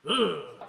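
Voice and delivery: short mock grunt of disgust; a brief noise mimicking a terrible singer; imitated awful singing voice. Guest mocking the rapper's voice, imitated ugly grunt. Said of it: "his voice sounds like".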